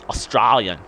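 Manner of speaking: AUSTRALIAN said the Aussie way, broad "os-STRAL-yan"; broad Australian accent. Shown as a demonstration. Vlogger showing how Australians say it, broad Australian accent on "Australian". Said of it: "as we say".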